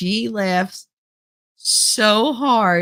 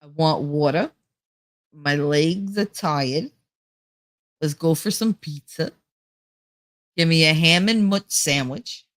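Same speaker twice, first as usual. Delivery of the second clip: New Jersey accent. Shown as a demonstration. Showing viewers how Jersey talks, New Jersey accent. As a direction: demonstrate your own New Jersey accent. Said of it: "That's how we talk".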